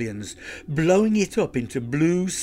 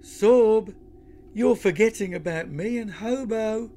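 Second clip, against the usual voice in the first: calling out; 8 semitones higher, 3 dB louder than usual. Acted. Lucy calling out.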